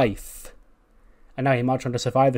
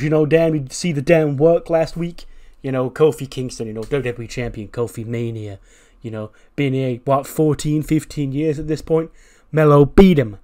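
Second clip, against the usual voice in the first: mock Mello brag; 4 dB louder than usual. Mello brags in barber shop.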